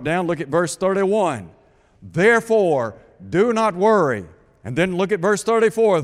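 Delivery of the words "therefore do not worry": louder, commanding "Therefore, do not worry"; strong pulpit command, "worry" hit hard; emphatic command. Shown as a demonstration. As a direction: preach it as a firm command. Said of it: "Jesus emphatically states".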